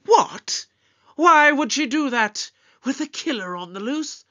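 high-pitched, startled questioning; alarmed disbelief. Acted. Doctor hearing his companion left again, alarmed disbelief. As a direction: voice jumps up in disbelief.

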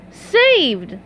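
high cartoon whoop. A narrator's reading. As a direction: cheer out in relief. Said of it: "Patrick and SpongeBob whooped".

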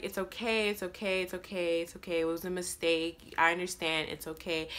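quiet, fading reassurance; gently calm her down; soft reassuring. Retold or imitated. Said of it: "She's like".

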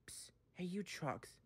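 hushed, conspiratorial call; quiet. A narrator's reading. Thomas secretly calls to the trucks, quietly. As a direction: softly get their attention on the sly. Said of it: "said Thomas quietly".

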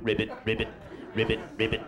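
soft, low ribbit croaks; frog croaking. Pretend. The first amphibian croaking, soft and low. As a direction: croak quietly like a little frog.

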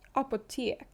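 «Апотек» repeated, falling at the end; «Апотек» said again, calm and falling; «Апотек» with a Swedish A near O; Swedish apotek. Shown as a demonstration. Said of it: "шведською вимовляється як".

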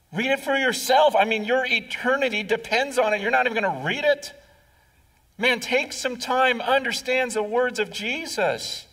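pleading with them to just read it. Acted. Urging congregation to read.

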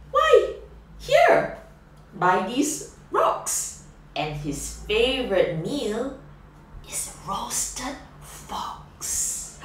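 teasing mouse. Acted. Mouse warning the fox, squeaky then hushed. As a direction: tease the fox, dropping to a hushed finish.

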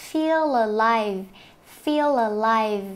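slow "feel alive", l carried into alive; linked words. Shown as a demonstration. Teacher showing linking in "feel alive", slow demonstration. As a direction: stretch and join "feel alive". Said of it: "Chỗ này mình có hai cái nối âm".

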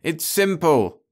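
high, slow, insistent cry; forceful slow cry; cried out. A narrator's reading. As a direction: call it out to all. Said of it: "he cried".

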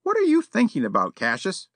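put-on a proper elderly gentleman, politely stern; prim old gentleman. A narrator's reading. Yollop voiced.

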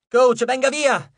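loud, high, slow exclamation; exclaiming. Acted. Jason calling the coach off the monster, slow loud exclaim. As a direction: call the coach away urgently. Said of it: "esclamò".

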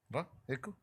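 hushed father voice; soft giving in. Acted. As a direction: relent quietly to the crying child.

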